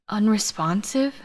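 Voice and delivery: slow, weak croak with a rising question. Acted. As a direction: croak it out, barely awake. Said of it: "I croaked out".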